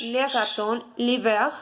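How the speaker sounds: le raton l'hiver said carefully; French pronunciation. Shown as a demonstration. Teacher repeating le raton l'hiver for students, careful French. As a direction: model le raton l'hiver for learners. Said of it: "se pronuncia".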